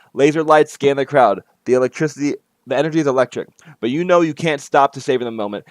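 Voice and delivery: lively game-text read-aloud; story narration. A narrator's reading. Player reading out the party scene under the bridge, story narration. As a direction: read the scene out to set the stage.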